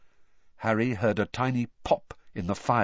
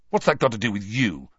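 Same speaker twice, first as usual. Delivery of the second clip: snarled; 3 dB louder, faster than usual. Acted. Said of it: "Harry snarled".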